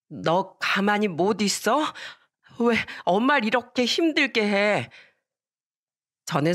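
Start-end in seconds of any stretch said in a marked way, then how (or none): 0.1-4.9 drawn-out motherly reprimand, mildly acted; exasperated scolding. Mother tells off her protesting daughter, exasperated scolding. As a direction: scold a child who won't behave.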